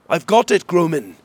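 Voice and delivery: high, loud call; shouting back. A narrator's reading. Hesper answering the guard in the tower, shouting. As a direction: shout up to someone far off. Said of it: "Hesper shouted back".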